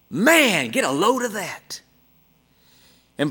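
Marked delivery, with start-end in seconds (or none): 0.1-1.8 mild mock yell, pitched up; imitated truck driver's yell. Truck drivers yelling to O'Connor about her peacocks, mild imitated yell. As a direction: call out like an impressed passing driver. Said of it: "yell at her".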